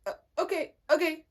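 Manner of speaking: high, small mock okay; hesitant acceptance. Imitating teammate told she won't go up, hesitant. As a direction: imitate a halting, high-pitched reply. Teammate's reaction to losing captain spot.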